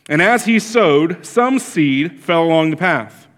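measured, formal Bible reading; scripture reading. Acted. Reads the scripture passage.

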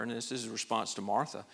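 normal talking voice

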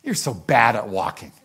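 put-on low, let-down sigh at a child; disappointed father. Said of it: "not like the father then goes and says".

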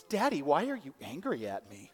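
lightly voiced hurt child; a hint of a small child's innocent question; little daughter. Daughter to dad who just yelled, innocently hurt. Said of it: "looks at me with her big eyes and she goes".

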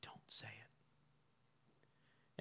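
very slow, hushed whisper; barely audible, stretched-out whispered caution; little inner voice. Acted. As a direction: whisper a drawn-out warning from inside the head. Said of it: "and, and you hear this".

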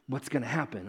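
soft, low suspense; quiet suspenseful wondering; hushed question. Acted. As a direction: lean in and ask it quietly. Repeats the question to the congregation.

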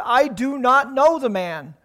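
slow, loud, emphatic denial; Peter's firm denial. Acted. Peter lying to the servant girl, slow and loud. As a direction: drive each word of the lie home. Peter denies Jesus second time.

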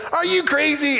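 high-pitched incredulous outburst; retold indignant question; upset. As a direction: challenge them in indignant disbelief. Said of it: "but I was upset".

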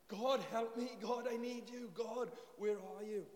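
loud desperate plea, rising to a shout; crying out to God. Retold or imitated. Preacher voicing David's urgent cry for help, loud and pleading. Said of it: "to cry out like this".

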